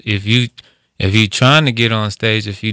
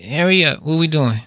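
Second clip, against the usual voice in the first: impatient comedian; 6 semitones higher than usual. Retold or imitated. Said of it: "they gonna look at you like".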